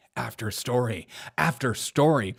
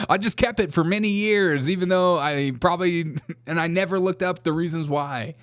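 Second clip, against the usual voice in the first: mock excuse voice; 4 semitones higher than usual. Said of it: "blaming the tattoo shop".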